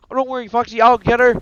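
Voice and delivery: high, full-volume rallying yell; battle shout. Acted. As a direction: shout it out charging into a fight. Acted call to Foxy mid-fight.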